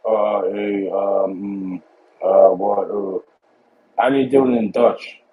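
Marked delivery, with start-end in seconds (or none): 0.1-3.2 imitating American fillers. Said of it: "like an American or North American, be like".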